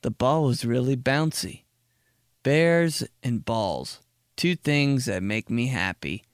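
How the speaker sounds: slow simple storybook read; a hint of reading to toddlers; kid's book reading. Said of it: "a four-page book that's like".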